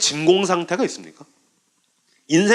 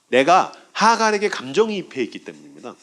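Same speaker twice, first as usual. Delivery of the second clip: usual speaking voice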